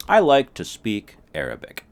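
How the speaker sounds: high and loud statement. Shown as a demonstration. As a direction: say it out loud proudly. Mock dialogue, loud.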